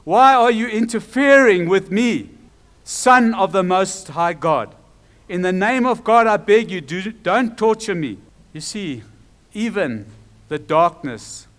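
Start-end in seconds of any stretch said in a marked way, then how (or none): 0.0-8.2 loud, raised preaching voice, no real shriek; half-strength cry of protest and begging; retold scream. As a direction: proclaim the possessed man's plea, easing at the end. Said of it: "With a shriek he screamed".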